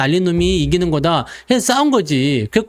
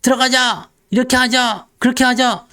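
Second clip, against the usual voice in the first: rallying crowd; 5 semitones higher than usual. Acted. Crowd rushing into stocks.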